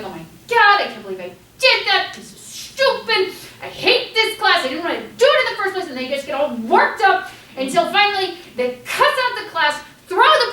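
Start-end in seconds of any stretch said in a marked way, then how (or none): 0.0-5.9 higher, rising into a half-hearted tantrum; student blanking in a speech, mock angry rant; mock anger. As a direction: play the student losing their temper, not for real. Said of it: "They get angry".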